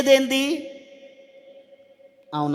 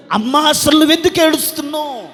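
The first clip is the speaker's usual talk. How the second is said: raised, high preacher's cry as God asking; loud demanding question; 6 semitones higher, 6 dB louder than usual. Acted. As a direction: call the question out to the congregation. God's question, loud then lower. (గొంతెత్తి గట్టిగా ప్రశ్నిస్తూ)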